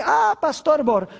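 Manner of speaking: slow, drawn-out objecting churchgoer; lightly voiced doubter, dragging the words; a hint of a whiny objector; mock objector. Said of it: "Algunas personas dicen".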